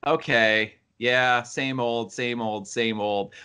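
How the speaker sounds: mock-bored viewer, slowing on "yeah". Critic voicing a viewer of repetitive action, bored. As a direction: trail down through the repeats, unimpressed. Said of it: "you don't get bored".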